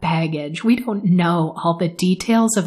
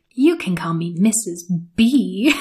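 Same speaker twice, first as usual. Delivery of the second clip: put-on perky, bubbly woman voice. Retelling a scene where a perky, bubbly woman enters: imitating a perky, bubbly woman. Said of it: "a very perky, bubbly woman".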